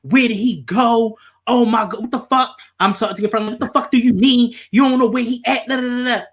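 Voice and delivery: frantic angry yelling at a friend who lost him; retold angry yelling. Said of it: "I'm mad as fuck at this point".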